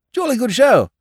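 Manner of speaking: high, loud jolly interjection; chattering upper-class silly lord; chatty lordship. A narrator's reading. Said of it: "interpolated his lordship chattily".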